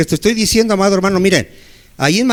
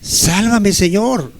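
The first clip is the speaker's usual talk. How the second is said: preacher leading the prayer, the repeated cry lifted with more urgency; stronger plea; 3 semitones higher, much slower than usual. Shown as a demonstration. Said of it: "Dile al Señor".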